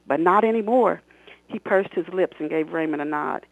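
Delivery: expressive read-aloud of her own novel; story narration. A narrator's reading. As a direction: read it like an audiobook, voicing the characters. Author reads novel excerpt aloud.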